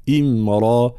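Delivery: إمرا with light hamza and clear i; clear kasra. Shown as a demonstration. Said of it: "الهمزة وبيان الكسر". (بيان كسر الهمزة)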